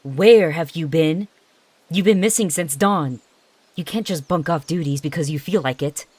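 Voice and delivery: a hint of an angry mentor telling off; furious scolding. Mentor scolding her runaway apprentice, mild anger. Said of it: "her furious expression".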